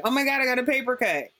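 mock whiny complaint. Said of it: "be like".

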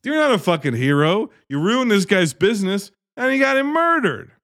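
rising, exasperated mock telling-off; mock scolding. Narrator scolding the hero for the innkeeper, mock outrage. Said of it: "It's like".

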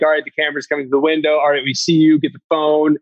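hurried Kiwi director cues, lightly put on; imitating New Zealand director. Director on the walkie-talkie cueing him, mock New Zealand accent. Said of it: "terrible New Zealand accent".

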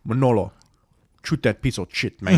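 lightly imitated Cuban accent; a hint of a Cuban gangster giving orders; Tony Montana. Retelling the scene with the cop, light mock Cuban accent. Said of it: "He was being a Cuban".

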